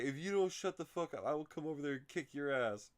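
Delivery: high-pitched mock threat; retold angry threat. Imitating the egged-on man in the stall, mock angry.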